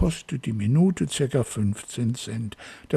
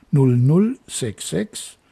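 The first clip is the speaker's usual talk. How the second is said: slowly spaced-out digits; slow dictation; 4 dB louder, slower than usual. Real, not acted. Host repeats the cheap prefix for callers, slow dictation. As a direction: read it out for someone writing it down. Repeats country code for listeners.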